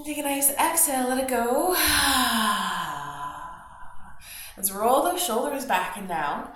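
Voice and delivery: calm instructor cueing the breath; yoga teacher guiding a morning practice; guided yoga class. Acted.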